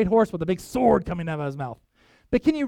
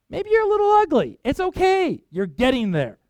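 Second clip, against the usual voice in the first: teasing aside; 7 semitones higher, 3 dB louder than usual. Real, not acted. Playful aside to listeners.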